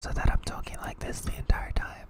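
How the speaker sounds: whispering. Offering a chat member two options for a redeem: whisper. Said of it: "Your options are either whisper".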